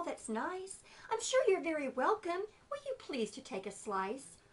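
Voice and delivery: spider voice. Acted. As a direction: coax the tired fly. Spider flattering.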